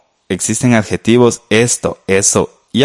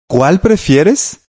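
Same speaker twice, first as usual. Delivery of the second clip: "¿Cuál prefieres?" asked slowly and higher, rising on prefieres; slow offering question; 7 semitones higher, much slower than usual. Shown as a demonstration. Teacher acting out a host offering two tamales, slow and higher. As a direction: offer the choice warmly and slowly. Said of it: "Entonces nos preguntan".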